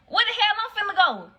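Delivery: high, loud disbelieving cry; incredulous panic. Retold or imitated. To friends abandoning her, high panicked disbelief. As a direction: demand it, stunned and scared. Panicked, left in strange neighborhood.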